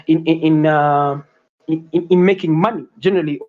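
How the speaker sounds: stuck repeating "in"; stammering. Real, not acted. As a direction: stumble over "in" before going on. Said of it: "forgive my, uh, stammering".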